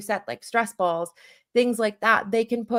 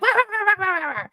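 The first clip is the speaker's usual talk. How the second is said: high yappy wah-wah barks; barking dog impression; 12 semitones higher, much faster than usual. Imitating her barking dog for parents. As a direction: yap like an agitated dog. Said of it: "that's my impression of a dog".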